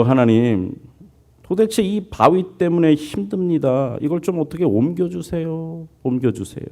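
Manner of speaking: high, pleading sick man begging God; pleading prayer. Retold or imitated. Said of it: "그래서 그가 밤마다 이렇게 기도를 해요". (높은 목소리로 애원하는 기도)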